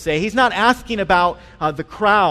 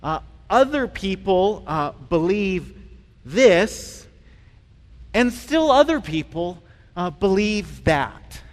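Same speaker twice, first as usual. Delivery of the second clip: mock pastoral hedging; slower than usual. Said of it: "I responded very pastorally".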